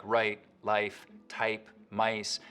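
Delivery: Canadian mid-mouth start to the I vowel. Shown as a demonstration. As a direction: raise the vowel in RIGHT and MICE. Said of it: "can get raised too".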